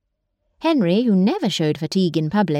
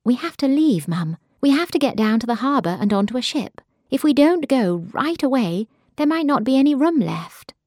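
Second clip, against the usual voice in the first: higher, hurried urgent daughter; urgent pleading; 5 semitones higher than usual. Acted. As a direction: press her to leave now. Urgent plea to flee bombs.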